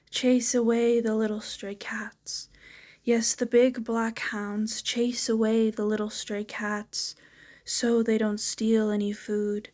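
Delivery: rhythmic recital with repeated refrains; poetry reading. Acted. Poet reading viewers a poem of hounds and sailors, rhythmic recital. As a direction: lean on the beat of each refrain, pausing between lines.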